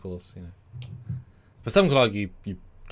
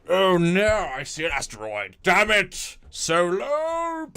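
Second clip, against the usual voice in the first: higher and louder, rising to a shriek on Solo; panicked cry; 8 semitones higher, 6 dB louder, slower than usual. Retold or imitated. Freighter pilot seeing the asteroid, panicked shout. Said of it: "the guy's like".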